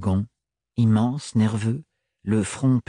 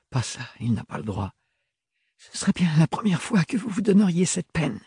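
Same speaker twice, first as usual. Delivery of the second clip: reproachful; 7 semitones higher than usual. A narrator's reading. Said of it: "reprocha-t-elle".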